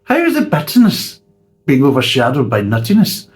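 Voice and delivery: laughing incredulous question. Retold or imitated. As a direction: puzzle over the taste aloud. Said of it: "And you're like".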